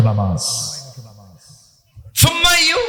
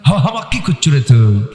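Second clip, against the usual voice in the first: Bogura dialect; 3 dB louder than usual. Retold or imitated. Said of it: "বগুড়ার ভাষার মধ্যে একটা মজা আছে".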